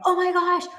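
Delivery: loud, high mock panic. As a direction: squeal Oh my gosh like you're losing it. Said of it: "reacting like you normally do, going".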